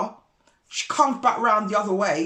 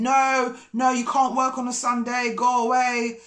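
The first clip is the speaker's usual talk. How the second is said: higher-pitched mock protest; imitated complaining; 4 semitones higher than usual. Neighbour objecting to men working on Sunday, imitated complaining. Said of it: "she was just complaining".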